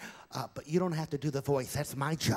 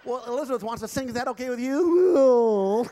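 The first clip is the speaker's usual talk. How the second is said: ventriloquist puppet voice; 7 semitones higher, 8 dB louder than usual. Acted. Ventriloquist dummy voice.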